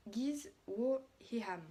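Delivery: "Giz Wo Hiham" read slowly, sounded out syllable by syllable in a French accent; slow, unsure French-accented reading of "Giz Wo Hiham"; hesitant English reading. Real, not acted. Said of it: "excusez-moi pour mon anglais d'avance".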